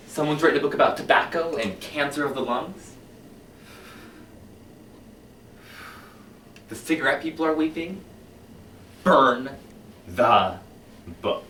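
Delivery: a zealous fire chief, swinging from hushed to loud; commanding book-burning fire captain; fiery fire captain. Acted. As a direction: preach the burning of books like a fanatic. Performs Beatty's monologue opening.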